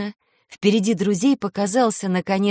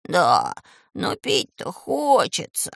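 whining; slower than usual. Acted. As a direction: whine like a thirsty child. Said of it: "заныл".

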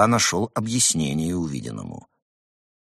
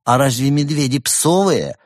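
timid voice; 6 semitones higher, 5 dB louder than usual. Acted. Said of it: "Робкий голос из зала".

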